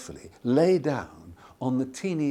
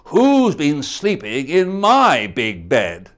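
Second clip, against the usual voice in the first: Papa Bear; 6 dB louder than usual. Acted. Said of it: "Papa Bear shook his paw and said".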